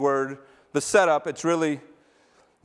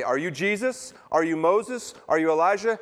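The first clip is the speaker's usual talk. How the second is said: pressing questions; 3 semitones higher, 4 dB louder than usual. Acted. Establishment grilling John the Baptist.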